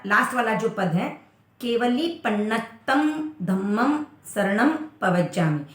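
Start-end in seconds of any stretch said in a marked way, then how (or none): 1.6-5.6 slow केवली पन्नत्तम धम्मम with म endings; correct recitation. Shown as a demonstration. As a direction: end each word on म: पन्नत्तम धम्मम. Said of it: "पन्नत्तो धम्मो शरणम नहीं करना है". (सही पाठ, पन्नत्तम धम्मम धीरे)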